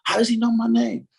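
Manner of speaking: high pitched freaking out inner voice; panicked kid voice. Retold or imitated. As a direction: squeal it like a kid meeting his hero. Like a little kid.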